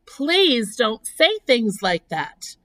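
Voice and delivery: slow, drawn-out pleading; groaning plea. Acted. Pig pleads against talk of blood, slow groaning. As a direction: beg with a long groan of dismay. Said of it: "groaned Wilbur".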